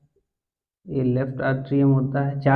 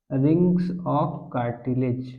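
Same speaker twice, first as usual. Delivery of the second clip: slow drill; much slower than usual. Shown as a demonstration. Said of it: "इनको क्या कहते हैं".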